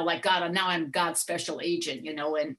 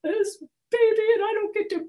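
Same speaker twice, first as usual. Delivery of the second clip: much higher, wailing sob of a hurt grandma; retold crying. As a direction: cry it out, pleading that it's not fair. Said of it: "I started crying".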